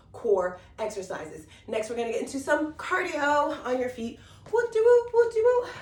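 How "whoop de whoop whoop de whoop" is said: high, loud playful sing-song whoop; bouncy hype chant before jumping jacks; excited whoop. Real, not acted. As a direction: cheer the class into cardio, much higher and louder. Instructor hyping up cardio.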